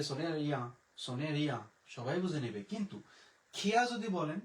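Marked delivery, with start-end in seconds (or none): 0.0-1.6 সোনে রিয়া with a plain front-of-tongue r; simplified r. Shown as a demonstration. Teacher reassuring learners it is understood, plain-r সোনে রিয়া. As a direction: say সোনে রিয়া with an easy Bangla r. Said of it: "রিয়া বলেন, সবাই বুঝে নেবে".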